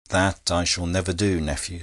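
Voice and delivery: plain reading voice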